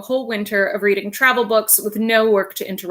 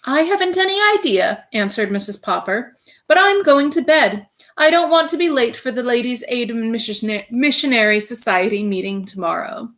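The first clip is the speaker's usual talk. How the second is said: Mrs Popper voice; 3 semitones higher, 4 dB louder than usual. Acted. Wife voiced in story.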